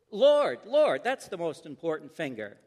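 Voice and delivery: eager guess. Acted. Boy answering pastor's finger game, eager. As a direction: blurt the answer out, then ease off.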